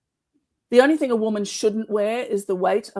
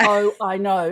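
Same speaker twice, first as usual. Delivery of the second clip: Australian vowels on "Oh, I know"; Australian accent; 4 dB louder, slower than usual. Shown as a demonstration. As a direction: demonstrate the phrase with an Australian accent. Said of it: "in Australian".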